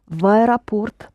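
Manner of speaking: "В аэропорт" said as one joined word; no gap between "В" and "аэропорт"; V linked to A. Shown as a demonstration. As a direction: attach the V to the opening A of "аэропорт". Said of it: "linking V to A".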